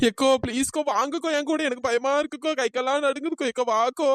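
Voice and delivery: frightened, whimpering plea; tearful pleading. Acted. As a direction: beg big sister to come along. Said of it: "எதுக்கு இப்படி அழுதுட்டு கிடக்கா". (அழுதுகிட்டே பயத்தோட கெஞ்சுறது)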